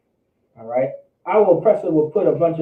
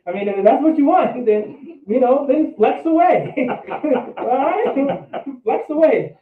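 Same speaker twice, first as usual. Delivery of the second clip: higher, louder sarcastic taunt, laughing through it; mocking dare; 9 semitones higher, 4 dB louder, slower than usual. Real, not acted. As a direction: sneer it out, daring him to keep flexing. Mocking men who show off.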